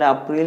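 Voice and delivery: April as "ah-pril", the way to avoid; wrong pronunciation. Shown as a demonstration. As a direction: show the mistaken April, "up-RIL". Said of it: "you don't need to say like that".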